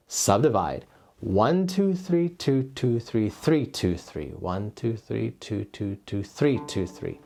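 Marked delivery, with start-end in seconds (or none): 1.2-7.2 steady count in threes, stress the leading "one", "two", "three" of each group; emphasis on note changes. Shown as a demonstration. Cello teacher demonstrating subdivision in your head, counting in threes with each group's first number stressed. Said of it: "counting and putting emphasis on where the notes change".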